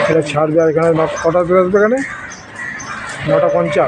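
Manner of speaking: muffled behind a mask; through a face mask. Real, not acted. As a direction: talk with a mask over your mouth. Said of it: "mask পরে কথা বলছি". (মাস্ক পরে চাপা গলায়)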